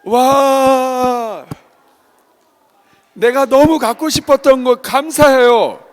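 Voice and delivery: high, loud, slow, drawn-out gushing; delighted thanks. Shown as a demonstration. Showing children how to receive an unwanted gift, delighted. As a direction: exclaim as if thrilled by the present. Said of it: "어떻게 해야 돼요".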